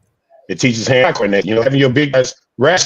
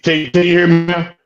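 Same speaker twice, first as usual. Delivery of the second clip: robotic choppy audio; glitchy bad connection; radio breaking up; 4 semitones higher than usual. Real, not acted. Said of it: "you sound like you, uh".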